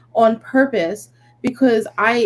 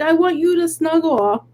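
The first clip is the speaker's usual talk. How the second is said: put-on higher little-kid plea; toddler voice; 5 semitones higher than usual. Mom imitating her toddler at bedtime, whiny kid voice. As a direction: ask sweetly like a clingy kid. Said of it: "And she's like".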